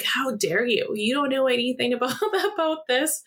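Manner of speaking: retold indignation. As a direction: replay the outrage lightly, breaking into a laugh. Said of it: "I was so mad".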